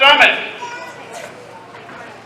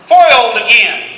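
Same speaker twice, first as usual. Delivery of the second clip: villain shout. Acted. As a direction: spit it like a beaten villain. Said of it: "the villain says".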